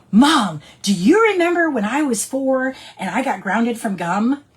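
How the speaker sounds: eagerly acting out a question to mom; excited retold question. Retold excited phone call to mom.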